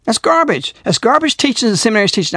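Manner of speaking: stamp down on garbage each time; emphatic. Real, not acted. Preacher denouncing seminary teaching, emphatic. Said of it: "I'm telling you, emphatically".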